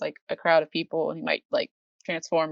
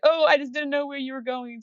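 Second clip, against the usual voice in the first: put-on a flustered girl explaining, pitched up; Tohru's voice; 7 semitones higher than usual. Tohru explains grabbing Kyo's shirt, high flustered voice. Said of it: "And then she's like".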